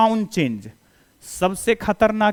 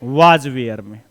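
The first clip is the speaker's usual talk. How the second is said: spelled out slowly and low; slow teacher's answer; slow dictation; 8 semitones lower, much slower than usual. Shown as a demonstration. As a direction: give each word its own beat. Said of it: "किस में change होता है".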